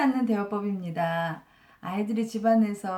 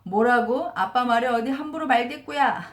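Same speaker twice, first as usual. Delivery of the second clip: higher, louder angry scolding; a retold father losing his temper, raised voice; mock angry dad; 3 semitones higher, 4 dB louder than usual. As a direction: snap back at the kid's cheek, half acted. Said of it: "더 화를 내면서 아이한테 이렇게 말하죠".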